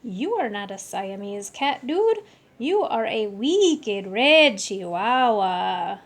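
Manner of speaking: slow, put-on Spanish accent, loud at the end. Kitten talking to his mirror in a slow Spanish accent. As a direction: play it cool in a Spanish accent, dude. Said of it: "using his very best Spanish accent".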